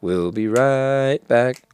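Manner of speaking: slow station voiceover; slow, deliberate commercial break line; TV bumper announcer. Retold or imitated. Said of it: "the A B C one".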